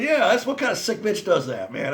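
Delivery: can't keep a straight face while quoting himself; laughing. Real, not acted. Telling a friend's ice cube tray story, laughing.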